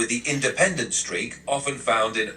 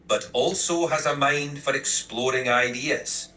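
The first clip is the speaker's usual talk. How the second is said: put-on tough love in a rural Irish accent. Assistant giving requested tough love, rural Irish accent. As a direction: talk straight with a put-on country Irish brogue. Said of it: "make it rural Irish".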